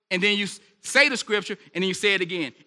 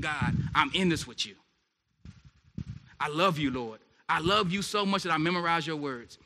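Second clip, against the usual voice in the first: soft, low pledge to God; tender prayer; 3 semitones lower, 5 dB quieter than usual. Acted. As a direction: speak softly, as if confiding in God.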